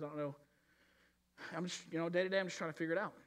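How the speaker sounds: a lightly voiced puzzled believer; unsure churchgoer. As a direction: sound like a lost congregant talking to himself. Voicing a confused churchgoer.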